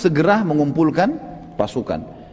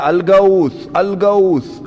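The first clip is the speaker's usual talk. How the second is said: mock cry for help; 3 semitones higher, much slower than usual. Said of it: "Dia teriak".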